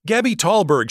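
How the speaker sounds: high, loud shriek of her name; frightened girl shrieking on the phone. A narrator's reading. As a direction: shriek it in a panic. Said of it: "she shrieked".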